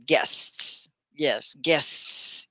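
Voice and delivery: GUESTS with a long hissed "sts"; sounded final s. Shown as a demonstration. Teacher models the word for students, final S sounded. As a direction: say the S at the end of GUESTS clearly. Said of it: "You say the S on the end".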